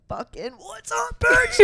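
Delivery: high, slow, cheery mock greeting; playful high-pitched hello ending in a loud bitch; teachers' greeting. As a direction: sing out the greeting like a thrilled drama teacher. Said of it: "they'd be like".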